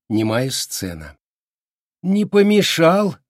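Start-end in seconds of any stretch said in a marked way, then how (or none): 2.0-3.2 slow, high, loud biting sarcasm; heavy mock politeness; sarcastic. A narrator's reading. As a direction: drip with sarcasm. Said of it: "весь сарказм, на какой был способен".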